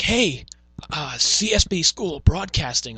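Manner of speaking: a first half-formed mock pitch; John Laurinaitis. Podcaster imitating a salesperson, lightly hammed-up impression. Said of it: "make him sound like John Laurinaitis".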